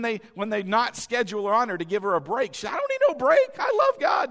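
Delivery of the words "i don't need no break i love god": high, loud insistent cry; imitating an eager churchgoer yelling; mock indignant shout. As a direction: shout it like she won't be stopped. Woman insists she needs no break.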